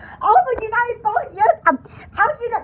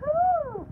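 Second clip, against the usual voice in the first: high, soft "oh"; shudder attempt; 8 semitones higher, 7 dB quieter than usual. Shown as a demonstration. Trying out how a shudder sounds, soft shuddering oh. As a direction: try a high, hushed shudder.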